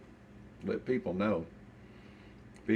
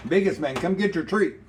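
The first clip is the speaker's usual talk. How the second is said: high, loud sing-song coaxing; pet talk; 10 semitones higher, 9 dB louder than usual. Real, not acted. Owner coaxing his old dog to come get a treat, high and loud. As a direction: coax the dog over with a treat.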